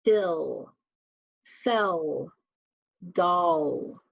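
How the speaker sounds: "Dill, sell, doll" each separate, lingering on the final L; word list for listening, final L held; drawn-out final sound. Shown as a demonstration. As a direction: let the L ring at the end of "Dill, sell, doll". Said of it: "listen for the final sound".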